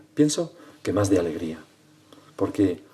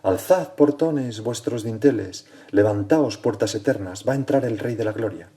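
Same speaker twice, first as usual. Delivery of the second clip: proclaimed cry; 2 semitones higher, 4 dB louder than usual. Acted. Voice crying out for the gates of heaven, raised proclamation. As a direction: call it out like a herald, without a full shout. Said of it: "Una voz grita".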